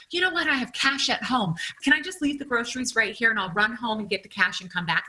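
lightly acted, high-voiced cover story; putting on a breezy front. Acting out her plea at checkout.

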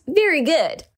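reading all caps. Acted. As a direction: pop the all-caps praise up high. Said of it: "in all caps".

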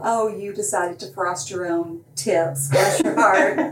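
slow, sugary put-down ending in a laugh; a sweet smile hiding a dig; mock-sweet sarcasm. Shown as a demonstration. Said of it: "or it can mean".

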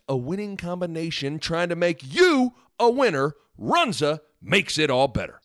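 upbeat sponsor read voice. Acted. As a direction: sell it like a radio spot.

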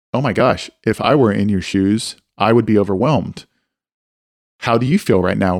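even, measured sympathetic question; calm empathy. Shown as a demonstration. Mentor answering a kid's confession, calm and empathetic. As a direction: respond with understanding, unhurried and level. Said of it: "in a calm way".

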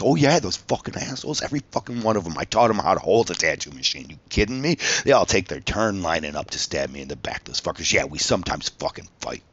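worked-up indignant tirade; fired-up anger. Retold or imitated. Contestant venting off camera about his former staff, angry. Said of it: "they liked the anger that they had fired up in me".

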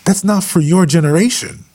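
mock scolding of a young preacher who copies his dad; mock rebuke to a young preacher. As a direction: call him out in disbelief, half-playful. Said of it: "And I'm like".

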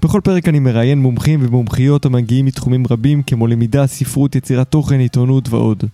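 polished, articulate host introduction; podcast intro read. Acted. Host introduces his guest to listeners, scripted intro read. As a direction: present the show and guest from a script.

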